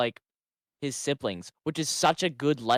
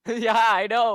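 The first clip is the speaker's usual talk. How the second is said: laughing; 8 semitones higher, 6 dB louder, slower than usual. Real, not acted. Mock-guilty reply while laughing.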